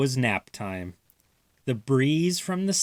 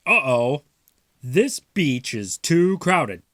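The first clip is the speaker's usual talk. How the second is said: worried Father; 2 semitones higher, 5 dB louder than usual. Acted. Father voiced, louder.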